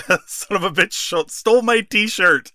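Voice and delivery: high, indignant retold whine; mock outrage. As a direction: sound robbed and offended. Retelling Jericho's outraged complaint.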